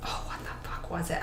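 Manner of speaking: whispered aside while trying to remember; muttering to self. Real, not acted. Podcaster racking memory for a book title, muttering to self. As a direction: mutter it under your breath, almost no voice.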